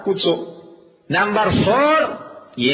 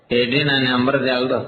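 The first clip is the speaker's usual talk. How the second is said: put-on dopey kid; 7 semitones lower than usual. Dim kid voiced by teacher.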